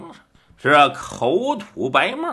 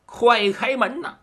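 快开门呐 called out higher, urgent; 7 semitones higher than usual. A narrator's reading. Husband at the door urges his wife, calling higher. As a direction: call through the door to be let in.

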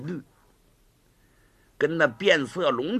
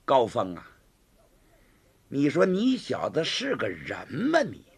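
cold sneer; 4 semitones lower than usual. Acted. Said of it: "冷笑了一声".

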